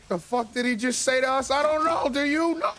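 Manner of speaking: very high, loud squeaky mock-dragon panic; two dragons baffled and asking each other; hammed-up high cartoon confusion; confused dragons. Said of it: "And it's like".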